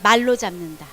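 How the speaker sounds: loud unison reading aloud; group reading. Shown as a demonstration. The class reads the key sentence aloud, loud reading. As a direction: read the line out together. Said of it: "읽어볼까요? 시작".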